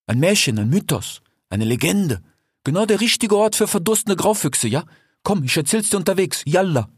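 lightly voiced sly desert fox talking to his friend; a hint of a streetwise fox, casual and teasing; fox character voice. Desert fox speaks to the sick grey fox, lightly voiced.

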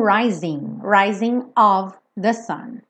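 rising ending in nasal n, no g; rising with no final g; silent g in rising. Shown as a demonstration. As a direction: drop the g sound in rising. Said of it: "G ... não é pronunciada".

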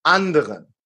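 slow, careful PA announcement; flight attendant announcement. Shown as a demonstration. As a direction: finish the cabin announcement slowly. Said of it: "Und jetzt geht diese Ansage weiter mit".

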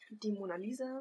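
usual speaking voice

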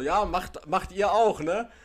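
high, loud brash reply; mock Ruhrpott reply. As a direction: call it back like the other couple. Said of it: "das andere Paar dann so".

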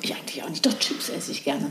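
whispered confession. Real, not acted. Admitting she likes chips, whispered. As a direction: whisper it like a secret. Confiding about snacks.

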